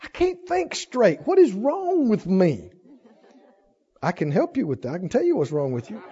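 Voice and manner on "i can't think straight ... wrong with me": lightly acted confused fretting; mock befuddled complainer. Preacher imitating someone who can't think straight, mock bewilderment. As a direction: imitate someone clutching their head in confusion. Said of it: "grab your head and go".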